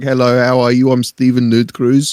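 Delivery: lightly put-on South African accent; a hint of South African accent. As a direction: introduce yourself as a South African guy. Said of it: "the name of a South African guy".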